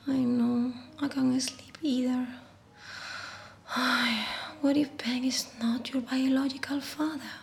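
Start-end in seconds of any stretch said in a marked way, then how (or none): 4.6-7.3 soft worried night whisper. Acted. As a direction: hush it to the baby, softer. Whispers to unborn baby at night.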